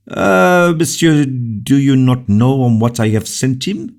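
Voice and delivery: bitter, high and loud retort; king rebuking his minister, acrimonious and loud. A narrator's reading. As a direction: throw the question back with rancour. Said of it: "replied Louis acrimoniously".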